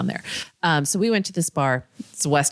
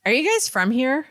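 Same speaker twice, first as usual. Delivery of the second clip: chatty pushy guy; 8 semitones higher than usual. Retold or imitated. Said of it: "be chatty with her".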